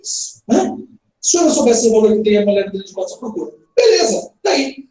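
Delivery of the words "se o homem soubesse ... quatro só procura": quick run-on reading, no pause at "tem" or "mulher"; unpunctuated, unbroken delivery; read without punctuation. Shown as a demonstration. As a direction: rush straight through "que tem a mulher, não daria" in one breath. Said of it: "vou ler pra você sem pontuação nenhuma".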